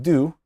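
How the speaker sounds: "do" with an oo vowel; clear vowel contrast. Shown as a demonstration. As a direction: say "do" clearly with a long oo. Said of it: "notice the difference in pronunciation".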